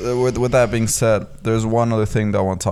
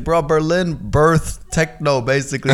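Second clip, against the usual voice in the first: mildly exasperated retort, raised pitch; heated, holding back; 4 semitones higher, 4 dB louder than usual. Retold or imitated. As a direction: retell an incredulous pushback, trying to stay cool. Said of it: "trying not to get heated".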